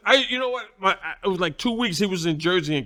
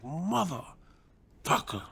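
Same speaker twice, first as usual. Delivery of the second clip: much softer, very slow, drawn-out curse; stunned groan; 11 dB quieter, much slower than usual. Retold or imitated. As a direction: let it out dazed, barely voiced. Stunned after a hard hit.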